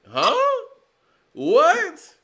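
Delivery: high, loud disbelieving what; loud high disbelieving what at the label boss's quote; shocked what. Real, not acted. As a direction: react in disbelief.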